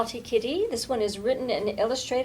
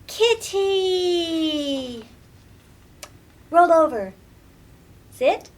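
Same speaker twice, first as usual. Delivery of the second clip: put-on loud, high little girl bossing her pet; bright child's voice barking pet commands; girl calling commands; 6 semitones higher, 8 dB louder, much slower than usual. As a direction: call him eagerly, then give firm commands. Lily training her new pet.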